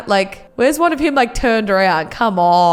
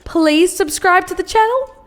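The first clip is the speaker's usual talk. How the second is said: higher, pleading please; sweetly polite plea; 6 semitones higher than usual. Real, not acted. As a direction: ask nicely, higher. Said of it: "I feel like I never say please".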